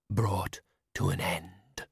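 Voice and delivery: slow, low, toneless spectre; dull ghost. A narrator's reading. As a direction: drone it, lifeless and slow. The spectre speaking.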